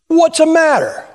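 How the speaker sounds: gruff waitress. Retold or imitated. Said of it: "She goes".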